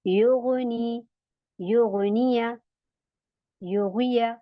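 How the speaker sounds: योगुनिया with a thick throaty gh; heavy ghain. Shown as a demonstration. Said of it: "इसी तरीके से".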